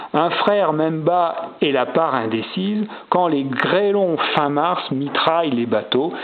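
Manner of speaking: measured poetry reading; verse recitation. Acted. Rereads the recomposed sonnet aloud.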